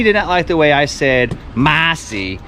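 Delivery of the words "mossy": drawn-out Boston accent, R dropped. Shown as a demonstration. Dad recalling how he said her name, Boston accent. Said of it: "in my Boston accent".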